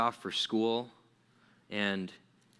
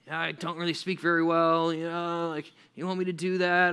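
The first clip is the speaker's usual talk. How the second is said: slightly higher, hesitant mock reluctance; reluctant excuses; 4 semitones higher than usual. Moses making excuses to God, mildly hesitant. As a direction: wriggle out of it politely.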